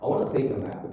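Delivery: "nap" finished with a small lip pop; popped final P. Shown as a demonstration. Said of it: "Jadi, letupin".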